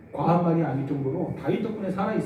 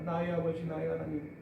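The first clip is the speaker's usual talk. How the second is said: anguished cry; 4 dB louder than usual. Retold or imitated. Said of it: "고통의 울부짖습니다".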